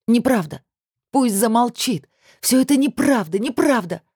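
high, desperate pleading denial; anguished denial. Acted. Heroine begs it not to be true, high and desperate. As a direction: plead against his words, close to tears.

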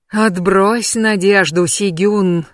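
slow, rasping prophetic croak; a hint of the dead rasping with her. Witch warns Sigyn, slow rasping croak. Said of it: "прохрипела ведьма".

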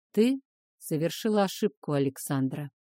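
a touch hoarse, low male voice; slightly husky, low dragon. Acted. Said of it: "чуть хриплым голосом".

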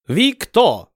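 high, mangled foreign hail; broken-accent shout. Acted. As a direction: fat Ottoman shouting from the galley, broken words. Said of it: "коверкая слова, закричал".

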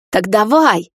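loud furious dare; trembling with rage. A narrator's reading. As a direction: dare him, shaking. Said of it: "дрожа от ярости". (мать бросает вызов сыну, в ярости)

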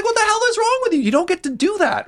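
very high, indignant imitation; retold fury. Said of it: "He was furious".

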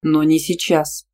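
slow, calm and unhurried. A narrator's reading. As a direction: settle it calmly and slowly. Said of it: "спокойно сказал Тима". (спокойно, медленно)

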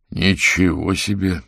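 slow, understated amazement; mild surprise. Acted. Averin sees the strolling couple, slow mild surprise. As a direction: let it out slowly, a touch astonished. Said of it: "удивлённо выдохнул Аверин".

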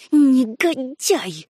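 медленно, сквозь зубы, с ненавистью; прошипеть оскорбление в лицо; злобное шипение. A narrator's reading. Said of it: "шипела Лукреция". (злобно шипя)

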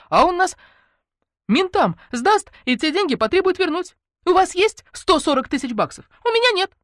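hammed-up panicky friend; agitated Natasha. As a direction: Natasha sounding the alarm to her friends. Natasha voiced by narrator.

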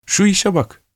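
high, delighted student's cry; excited exclamation. Acted. Student spotting the red rose, delighted and high. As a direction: crow with sudden delight. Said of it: "diye bağırdı".

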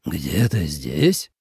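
slow, low, puzzled question; astonished echo. A narrator's reading. General surprised by her claim, asking slowly in disbelief. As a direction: repeat her words in disbelief. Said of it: "несказанно удивился".

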